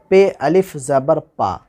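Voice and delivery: पे अलिफ ज़बर पा spelled slowly syllable by syllable; spelling out pa. Shown as a demonstration. Teacher spelling पे अलिफ ज़बर पा slowly to students. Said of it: "आवाज़ किधर जा रही है".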